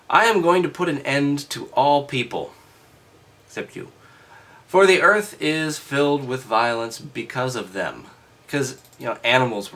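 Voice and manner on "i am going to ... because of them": raised, declaiming Bible reading; loud, formal reading voice; scripture reading. Acted. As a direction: read it out like a lesson.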